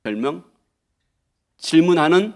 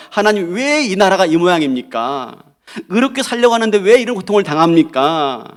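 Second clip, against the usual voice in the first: arguing prayer. Retold or imitated. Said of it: "따지듯 지금 기도하고 있는 것입니다".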